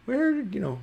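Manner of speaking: high-pitched gnome call; gnome shouting. Acted. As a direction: pitch it way up, calling out. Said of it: "He's, he's shouting".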